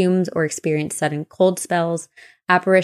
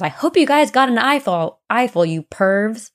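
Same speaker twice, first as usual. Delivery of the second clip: retold outburst, higher and pitched up; mock angry yell; 5 semitones higher than usual. Woman yelling at two men at the bar, mock angry. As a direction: scold the pervs with mock outrage. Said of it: "yelled at these two men".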